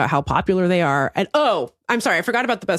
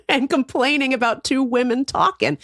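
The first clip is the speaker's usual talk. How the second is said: incredulous; 3 semitones higher than usual. Retold or imitated. Heated retort to critic.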